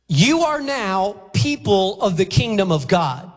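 normal talking voice

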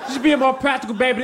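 high, exasperated scolding; exasperated yell. Real, not acted. Comic yells at baby.

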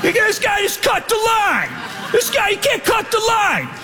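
high, shrill mock yell from the crowd. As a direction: yell it like an outraged line of people. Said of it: "Everyone starts yelling".

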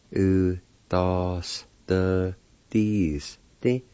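"U, da, s, the, dis, di" with short gaps; measured "U, da, s, the, dis, di", syllables separated; broken into syllables. Shown as a demonstration. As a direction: sound out "U, da, s, the, dis, di" part by part. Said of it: "pronounced like this".

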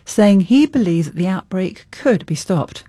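measured, emphatic news anchor delivery; news read. Acted. Anchor reporting on the outbreak response to listeners, news read. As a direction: read it as a broadcast bulletin.

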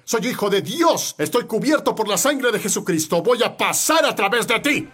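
desafío actuado, en tono algo alto; desafío de David. Acted. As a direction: reta al gigante con firmeza. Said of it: "haz como David". (declaración desafiante)

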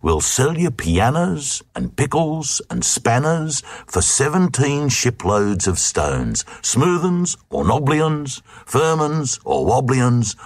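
a coaxing trader's patter, lifting high on the list; lightly voiced sly merchants wooing buyers; smooth, wheedling sales talk; seductive sales pitch. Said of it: "in seductive tones".

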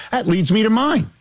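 high-pitched mock segue. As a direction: redo it pitched right up. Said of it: "still gotta go higher register".

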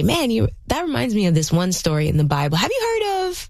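casual companion, lifting high on the question; side-by-side sharing. Acted. Parent recalling a Bible story beside a child, friendly invitation. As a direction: share it as an equal, lightly acted. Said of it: "come side by side and say".

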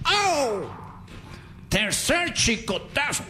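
high begging cries to stop; hammed-up high pleas to stop; mock pleading. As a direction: beg them to stop the lashing. Acting the whipped man.

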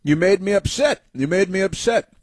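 mock her in a high whine; sing-song mock of an upset woman; mocking whiny woman. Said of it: "she said".

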